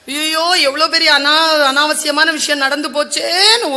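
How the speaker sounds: slow, tearful lament; retold wailing. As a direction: wail it slowly, as if Draupadi. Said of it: "ஓன்னு அழறாங்க திரௌபதி". (அழுகையுடன் மெதுவாக)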